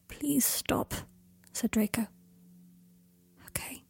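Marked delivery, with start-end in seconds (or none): 0.1-0.9 breathless whispered plea, higher. Acted. Draco whispers to Harry to stop. 3.5-3.8 faint, barely voiced whisper. Harry gives in to Draco, whispering. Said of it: "whispered Harry".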